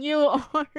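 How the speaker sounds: playful jab through a laugh; laughing tease. Real, not acted. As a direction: laugh while pointing it back at them. Teasing reader about crying.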